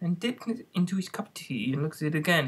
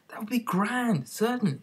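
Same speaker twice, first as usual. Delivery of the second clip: thoughtful; 7 semitones higher than usual. Acted. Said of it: "said Alice thoughtfully".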